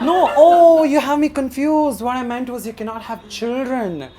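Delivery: high, loud laughing. Retold or imitated. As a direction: laugh while explaining. Retold excuse, laughing.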